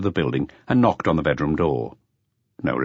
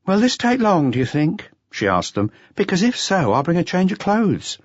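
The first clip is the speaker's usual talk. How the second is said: higher, resentful woman's voice, slowing at the end; indignant dancer; 12 semitones higher than usual. A narrator's reading. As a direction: spit out the grievance in her voice. Adele voiced by narrator.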